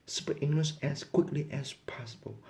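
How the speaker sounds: whispered, unvoiced rule. Shown as a demonstration. States a rule of the lesson.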